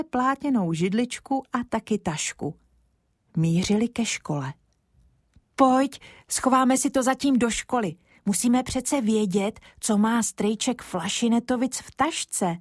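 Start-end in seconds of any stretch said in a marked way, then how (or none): 5.6-12.6 a lightly voiced boy, higher and eager; a lightly voiced Kája, keen on a secret plan. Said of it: "řekl Kája".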